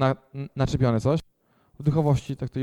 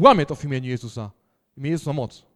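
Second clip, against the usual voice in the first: commanding proclamation; 5 dB louder, faster than usual. Retold or imitated. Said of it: "A tylko powiedziałem".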